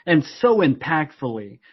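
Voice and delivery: amused mock British announcer; imitated British voiceover. Host mimicking the voiceover actor's blunder, British accent. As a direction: deliver it as a British voiceover, landing on Gus. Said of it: "I wanted British. Um, he kept saying Gus".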